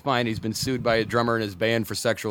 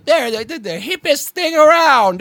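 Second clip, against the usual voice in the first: gushing fanboy; 13 semitones higher, 10 dB louder than usual. Retold or imitated. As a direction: gush like a dazzled Apple fan. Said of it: "everyone just goes".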